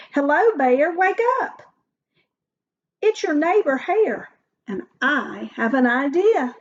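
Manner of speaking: cheerful Hare. Acted. Hare wakes sleeping Bear.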